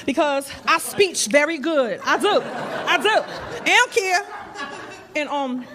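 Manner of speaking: lightly voiced brash Brooklyn accent; a hint of a tough Brooklyn contestant; Brooklyn girl accent. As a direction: sass the crowd in a Brooklyn accent. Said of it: "I'm from New York".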